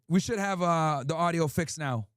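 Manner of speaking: slow, drawn-out test line; slow mic test. Shown as a demonstration. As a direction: spell it out slowly for the mic check. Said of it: "Give me ones if audio's good".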